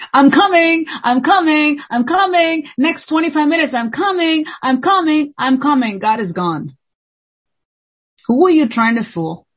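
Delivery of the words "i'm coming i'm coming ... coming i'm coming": high, lazy mock reply; mock stalling. Preacher mocks believers who keep delaying God, high. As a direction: stall like someone who never shows up. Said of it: "there's some people who say".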